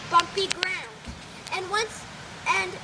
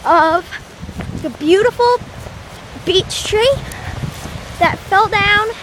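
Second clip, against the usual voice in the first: shouting over wind; 6 dB louder than usual. Real, not acted. Filming outside in strong wind.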